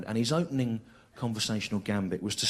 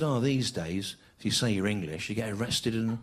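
matter-of-fact cabbie; 4 semitones lower than usual. Retold or imitated. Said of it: "And he said".

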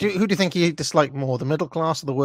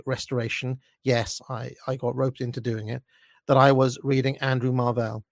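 measured, disdainful first-person narration; story narration. A narrator's reading. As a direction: read it as a self-important narrator's monologue. Reads own story aloud.

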